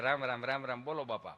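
low, soft run of greetings; hushed, low reply trailing away; murmured pious reply. Acted. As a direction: murmur it like a quiet devotee.

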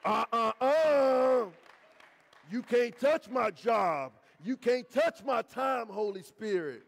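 loud, slow forbidding shout; possessive refusal. Retold or imitated. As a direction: warn the Holy Spirit off your things. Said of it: "But when he wants to start touching our stuff".

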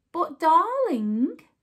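soothing. Acted. Missus Mouse soothing husband.

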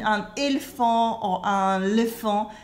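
"éléphant" cut to "elfan", then "léfan"; wrongly shortened. Shown as a demonstration. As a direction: drop one É each time from "éléphant". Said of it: "you cannot shorten it".

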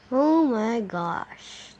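slow amazed gasp of words. Real, not acted. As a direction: stretch it out in awe. Drawn-out exclamation.

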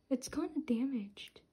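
soft dismayed whisper; worried whisper. Real, not acted. Fan whispering worriedly that the card is damaged.

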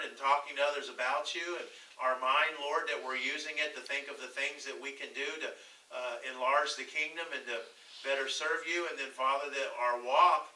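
earnest, even-toned closing prayer; running, level prayer voice; public prayer. Real, not acted. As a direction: lead the congregation in prayer, addressing God.

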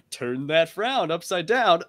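cartoon villain voice. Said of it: "where I get that voice from".

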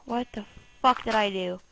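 normal talking voice

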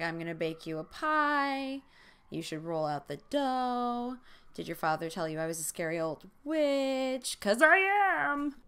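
hammy cartoon Russian villainess, building to a loud high finish; bad Boris and Natasha accent. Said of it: "like, Boris and Natasha accent".

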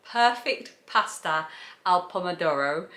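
a hint of Italian on the dish name; lightly rolling the Italian title; mock Italian. Shown as a demonstration. Vlogger catching her own slip, hint of Italian accent. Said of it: "Did you notice I went all kind of, like, t-, attempting to do Italian then?".

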